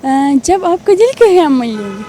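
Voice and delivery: lightly voiced young woman on the phone; a hint of a coy girl chatting; girl's voice. Prank caller chatting with the host as a girl. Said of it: "کر کے تو دکھائیں".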